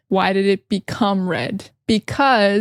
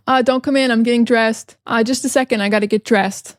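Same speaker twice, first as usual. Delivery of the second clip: lightly acted person behind a door; light roleplay; faster than usual. Shown as a demonstration. Lightly acted person telling someone not to come in. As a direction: play someone calling out while changing. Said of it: "standard way".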